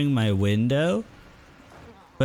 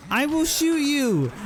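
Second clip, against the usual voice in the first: even higher, desperate repeat of the threat; pitched-up repeated threat; higher frantic threat; 12 semitones higher than usual. Real, not acted. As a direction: push the warning up higher.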